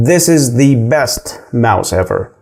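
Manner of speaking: "the" said as a long "thee" for emphasis; slow sentence leaning on "the", pronounced "thee"; stress on THE. Shown as a demonstration. Teacher showing how to insist this mouse is best, "the" stressed as "thee". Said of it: "أنا عاوز أأكد على حاجة".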